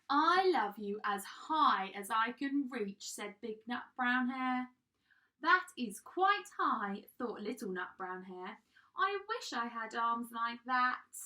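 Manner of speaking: expressive bedtime storytelling with drawn-out key words; animated picture-book narration; children's story reading. A narrator's reading. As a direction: read it to small children, lifting the dialogue. Reads a picture book aloud.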